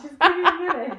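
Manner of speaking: loud, tearful laughing plea; in tears. Real, not acted. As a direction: burst out pleading, half crying. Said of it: "is bringing you to tears".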